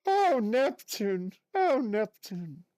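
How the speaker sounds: slow strained cartoon sigh; practicing Mrs Puff, slow and forced; forced Mrs Puff impression. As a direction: push out a drawn-out Oh Neptune. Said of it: "I'm forcing it".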